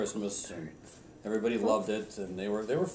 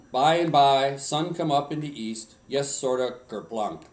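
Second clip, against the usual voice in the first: put-on Swedish accent; 2 semitones higher, 5 dB louder than usual. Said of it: "in my best Swedish accent".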